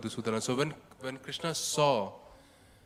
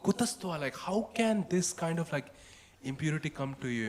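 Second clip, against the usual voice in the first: raised, firm reproach; strong in his word; 3 semitones higher than usual. Acted. Krishna firmly rebuking Arjuna on battlefield, raised reproach. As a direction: press the question home, pitched up. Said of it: "really strong in his word".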